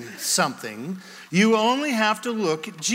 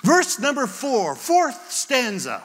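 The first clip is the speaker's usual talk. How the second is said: slow, higher-pitched hymn leader's call; hymn leader's announcement; 4 semitones higher, slower than usual. Retold or imitated. Song leader calls the stanza to the congregation, slow announcement. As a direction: call out the verse with drawn-out ceremony.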